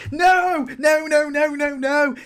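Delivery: loud, high emphatic refusal. Real, not acted. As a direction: shout down the idea. Vehement denial of own claim.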